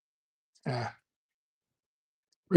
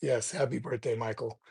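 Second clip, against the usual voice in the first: muted reply; 2 semitones lower, 6 dB quieter than usual. Retold or imitated. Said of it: "It's like".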